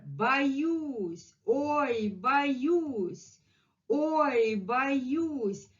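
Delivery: high, frightened little cry; scared voice. Acted. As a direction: sound nervous and startled. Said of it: "he was really scared".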